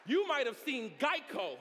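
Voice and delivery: loud, high, rising preacher's cadence; full-force preaching. Acted. Preacher calling to his congregation, full force.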